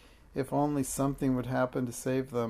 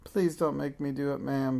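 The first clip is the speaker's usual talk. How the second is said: begging. Acted. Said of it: "begged Minx".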